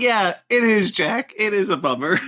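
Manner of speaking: high-pitched, amused agreement; acted reply to character. Viewer answering the killer on screen, high and playful. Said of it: "I was like".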